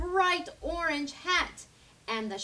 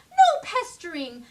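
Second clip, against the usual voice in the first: pleading; 5 semitones higher, 9 dB louder than usual. A narrator's reading. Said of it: "she pleaded".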